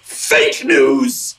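high, indignant cry of fake news; indignant exclaim. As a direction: fling it out in outrage. Ranting about fake news.

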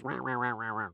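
soft imitation of a yowly, chattering cat; cat's constant chatter. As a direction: rattle off cat noises, trailing away quietly. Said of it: "she never stopped talking".

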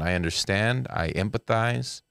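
mock-understanding, slowing down; demonstrating an understanding accent. Shown as a demonstration. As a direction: show mild, measured empathy. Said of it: "That was an understanding accent".

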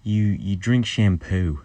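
Scot putting on an Australian accent; attempted Australian accent. Shown as a demonstration. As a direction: try an Aussie accent over a Scottish one. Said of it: "him doing an American, Australian accent".

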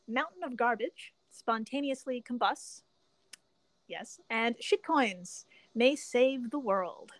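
slow, weighty announcement of the episode titles; drawn-out dramatic title reading. Acted. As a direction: spell out each title like a headline.

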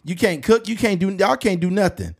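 high, repetitive mock chastising; old grandma impression. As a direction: scold the young folks as a grandmother would. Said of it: "some of them old grandmas be the same way".

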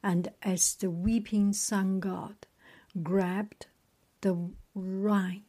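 measured storybook reading; story narration. A narrator's reading. Reader resuming the sun god's tale, measured story narration. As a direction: read on in short, paused phrases.

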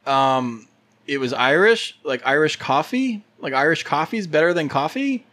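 sneering fake sweet; mean girl voice. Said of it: "Why are you talking like a mean girl?".

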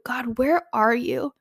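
slow, hopeful, searching "God, where are you?"; searching, trusting tone. Shown as a demonstration. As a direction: ask "God, where are you?" slowly, really looking for him.

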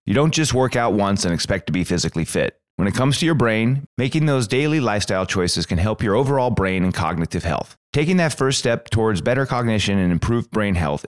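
scripted sponsor read. Acted. Host pitching brain supplements to listeners, scripted ad read. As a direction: read it as a podcast commercial.

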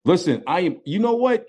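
high, excited fumbling for words; gushing, caught off guard by a hero; starstruck. Real, not acted. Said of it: "I'm a little starstruck right now".

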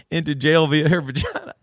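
choking back giggles while reading; stifled laughter. Real, not acted. Reading a news story to friends, stifled laughter. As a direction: read it through a building laugh. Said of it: "I'm starting to cry here".

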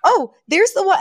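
high-pitched excited pointing-out voice; over-the-moon Fran. Retold or imitated. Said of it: "over the moon".

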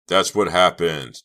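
shrill loud protest; shrill insistence. Acted. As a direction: insist desperately. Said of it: "Chuck insisted shrilly".

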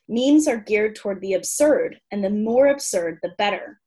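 measured, articulate read-aloud of a humorous essay; written entry reading. Acted. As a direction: present it like a comic encyclopedia entry.

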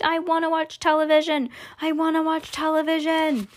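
high, insistent, repetitive whine; tantrum squeak. Acted. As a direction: squeak the demand like a tiny brat. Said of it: "he squeaked".

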